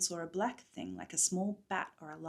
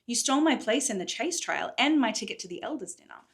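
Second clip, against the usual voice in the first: angry; 4 semitones higher, 5 dB louder than usual. Acted. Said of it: "feeling her anger rise".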